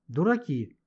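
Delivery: frustrated outcry with pitch leaping up; exasperated shouting. Acted. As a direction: burst out, demanding an explanation. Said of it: "закричала Маня".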